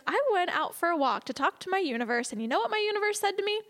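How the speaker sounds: imitating a friend, pitch climbing high; excited retelling. Friend reports her walk with the universe, excited.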